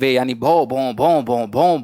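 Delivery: playful imitation of a barking dog, bhaun bhaun; mock dog barking. Teacher mocking people who preach endlessly, playful mock barking. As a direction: bark out a few mock woofs to tease. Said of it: "भौंकते चले जाना".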